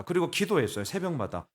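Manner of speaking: ordinary talk, nothing marked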